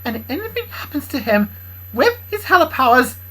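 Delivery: loud, high scolding character voice; angry Kendra. Acted. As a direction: scold him hard, voice up high. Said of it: "Kendra pointed at Bobby White angrily".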